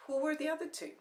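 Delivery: high, loud jealous demand. Acted. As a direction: press him hard.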